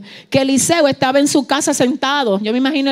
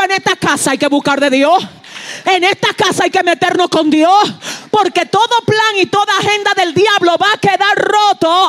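fervent declaration; 6 semitones higher than usual. Acted. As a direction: declare it like a prophet. Prophet's declaration, preached.

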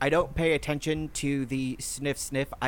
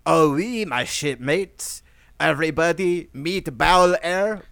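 hearty introduction; 4 semitones higher, 7 dB louder, slower than usual. Acted. Introduces friend to shipmates, loudly.

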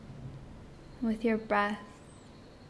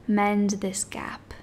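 whisper. Acted. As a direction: breathe the words out. Whispered phrase in meditation.

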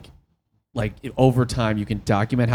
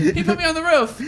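high voice. Pretend. Repeated high complaint.

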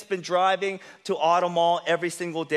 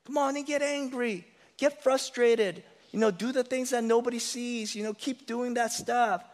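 put-on soft, higher coaxing voice of the old master; tempting whisper of sin; 5 semitones higher, 4 dB quieter than usual. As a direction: lure them back softly like a tempter. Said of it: "your old master whispers to you".

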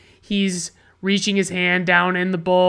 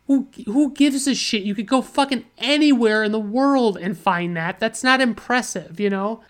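exasperated disbelief; 3 semitones higher than usual. Real, not acted. Reviewer unimpressed by a film's wine wall, exasperated. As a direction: scoff as if nobody could care.

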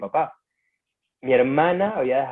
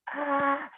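high mock scream, thrown into the air; imitated scream; 4 dB quieter than usual. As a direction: scream like a woman losing it. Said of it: "a gritar". (grito imitado, agudo, como una loca)

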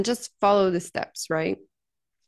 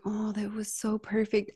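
retold delighted client; 6 dB quieter than usual. Retells a delighted client's reply.

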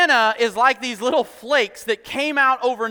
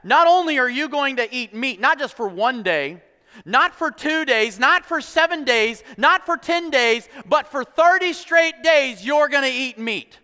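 each count of days pitched higher; escalating list; 4 semitones higher, 4 dB louder than usual. Acted. Lord tells complainers how long they'll eat meat, mounting emphasis.

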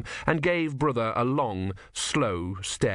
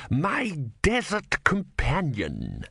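amiable; 6 semitones higher, much slower than usual. A narrator's reading. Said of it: "he said amiably".

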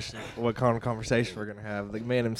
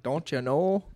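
lightly mimicked Minnesotan accent, raised pitch; 5 semitones higher, much slower than usual. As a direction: imitate a Minnesotan with a higher, rising lilt. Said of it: "a Minnesotian accent".

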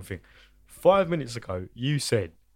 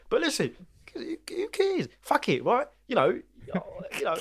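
high whisper; 11 semitones higher than usual. Real, not acted. Sudden high whisper aside.

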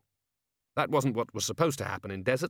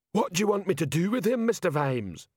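troll sergeant in a raised character voice; higher-pitched troll, asking for orders; Detritus; 8 semitones higher than usual. A narrator's reading. Troll holding a captive, asking Vimes, higher-pitched troll voice.

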